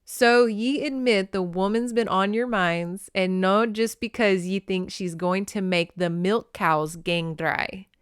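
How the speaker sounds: light, deliberate Scots dialect; reread Scots. Shown as a demonstration. Reader rereading phonetic dialogue, careful Scottish accent. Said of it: "I have to reread this".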